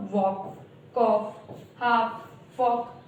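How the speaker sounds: वॉक, कॉफ, हाफ, फॉक with the L silent; slow, separate words, no L in वॉक, कॉफ, हाफ, फॉक; correct pronunciation. Shown as a demonstration. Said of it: "सही pronunciation क्या होगा?".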